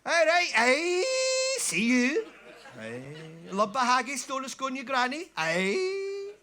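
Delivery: panda putting on a Scottish voice; broad Scottish accent. Acted. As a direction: shout it in a thick Scots brogue. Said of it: "only me that ever learned to speak Scottish".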